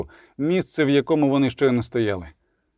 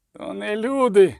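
moaned; 8 semitones higher than usual. A narrator's reading. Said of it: "простогнав хтось із найманців".

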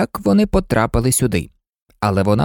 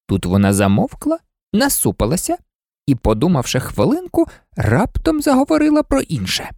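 plain reading voice

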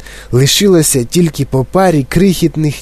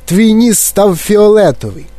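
higher, alarmed exclamation; crying out; 7 semitones higher than usual. A narrator's reading. Father tells Violet about her nose, crying out. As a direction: blurt it out as a shocked father. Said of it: "заволав пан Борегард".

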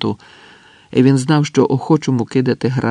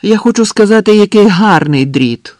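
very loud, high shout, slowing at the end; high-pitched hollered compliment; shouted praise; 9 semitones higher, 9 dB louder than usual. A narrator's reading. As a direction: yell exaggerated admiration to appease them. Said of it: "крикнув Андрес".

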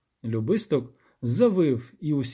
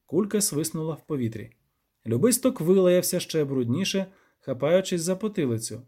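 plain reading voice

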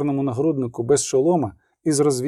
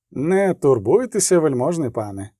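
a kindly orderly soothing his patient; chatty field medic. Acted. Medic reassures wounded witcher. (балакучий фельдшер заспокоює відьмака)

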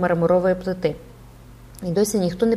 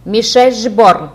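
loud, slow drawn-out call; shouting into his ear; 3 semitones higher, 10 dB louder, much slower than usual. A narrator's reading. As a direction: bellow the name right at his ear. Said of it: "крикнув йому мало не в саме вухо".

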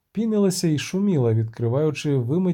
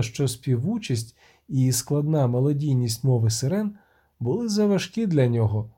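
ordinary delivery

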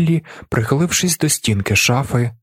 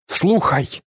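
a mild barked warning, higher; barking; 7 semitones higher than usual. A narrator's reading. Willi threatens Tjaden not to lie, mild bark. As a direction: growl it as a threat. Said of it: "гаркає Віллі".

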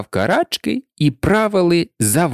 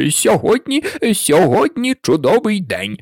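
higher, hesitant small talk; a touch nervous, higher-pitched; timid voice; 7 semitones higher than usual. A narrator's reading. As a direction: start shyly, repeating yourself. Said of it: "несміливий голос".

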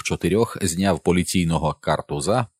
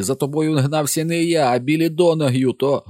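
put-on angry teen; 10 semitones higher, 4 dB louder than usual. A narrator's reading. Harry shouting, then breaking off.

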